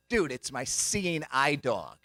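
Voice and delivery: slow, deliberate bluff; feigned sincerity. Retold or imitated. Pretend blind man to shop worker, slow deliberate explanation. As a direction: stretch it out as if explaining the obvious. Acts himself faking blindness to clerk.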